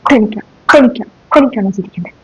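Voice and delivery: a hissed whisper at the giggler; scolding whisper. Acted. Teacher to a laughing pupil, stern whisper. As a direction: whisper the rebuke sharply.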